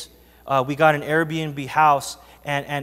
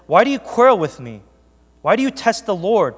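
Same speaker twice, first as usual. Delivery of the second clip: Moses rebuking; 4 semitones higher, 6 dB louder than usual. Acted.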